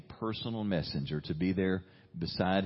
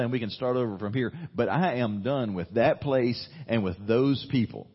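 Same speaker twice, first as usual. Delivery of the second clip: louder, higher, fed-up prophet quitting; impassioned mock resignation; Elijah resigning; 5 semitones higher, 6 dB louder than usual. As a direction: spell it out like a man who is done. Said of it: "the message between the lines is".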